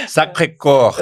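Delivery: Sacré-Cœur slowly, ending in a long open "kor"; French pronunciation attempt. Shown as a demonstration. Host shows guest the local way, French pronunciation attempt. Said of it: "igual eles falam".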